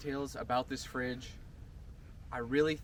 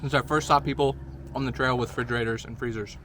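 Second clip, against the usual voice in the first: chewing while talking; mouth full; 7 dB louder than usual. Real, not acted. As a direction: say it around a bite of ice cream. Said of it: "excuse me, I'm gonna talk with my mouth full".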